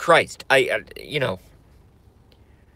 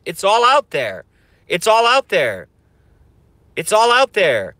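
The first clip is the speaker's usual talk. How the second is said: ranting shout; 4 semitones higher, 3 dB louder than usual. Acted. Ranting conspiracy streamer repeating.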